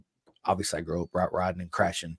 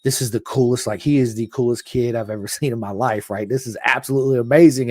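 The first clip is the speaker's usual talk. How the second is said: awestruck; 3 semitones higher, 6 dB louder than usual. Retold or imitated. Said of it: "just in awe".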